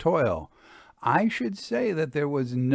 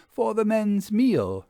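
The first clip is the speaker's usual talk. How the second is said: farmer's wife, voiced higher; a cheerful country wife, pitched higher; lightly voiced farm wife, busy at her potatoes; 9 semitones higher, 3 dB louder than usual. A narrator's reading. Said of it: "she explained".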